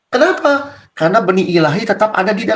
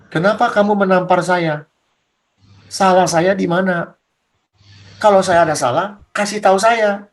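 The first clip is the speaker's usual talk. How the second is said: lower, measured questioning as Jesus; Jesus style; 3 semitones lower than usual. Acted. Jesus questioning the one who slapped him, low and measured. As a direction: ask it low and unhurried, like Jesus. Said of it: "gayanya Yesus".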